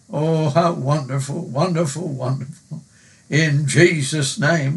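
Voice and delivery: earnest pulpit prayer; heartfelt spoken prayer. Acted. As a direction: pray it aloud for the congregation. Leads a prayer.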